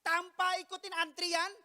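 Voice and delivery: high, loud, emphatic sermon delivery; full-force preaching. Real, not acted. Preacher telling how Jesus' journey was interrupted, forceful preaching. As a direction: punch out each phrase slowly and loudly.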